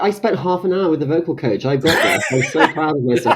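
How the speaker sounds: mock-proud actor, laughing through it; self-satisfied imitation. Co-host mocking an actor proud of his accent, self-satisfied. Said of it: "pleased with himself".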